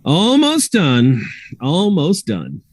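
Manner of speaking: a lightly voiced Ratchet, absorbed in work; focused medic voice at work, slow; Ratchet muttering. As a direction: mumble it while tinkering.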